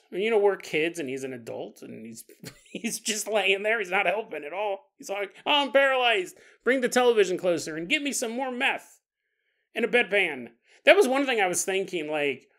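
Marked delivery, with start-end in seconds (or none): 5.4-10.5 mock lazy dad. Mocking lazy paralyzed dad.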